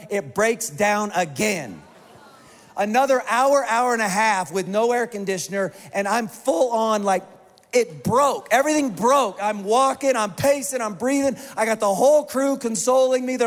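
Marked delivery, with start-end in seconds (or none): none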